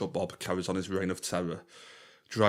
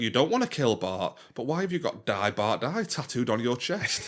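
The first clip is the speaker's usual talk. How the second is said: lawyer voice; 4 semitones higher than usual. Retold or imitated. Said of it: "just the way he talks".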